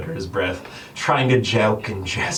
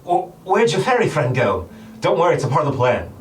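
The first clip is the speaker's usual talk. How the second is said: lightly voiced Guy; 5 semitones higher than usual. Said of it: "Guy speaks up".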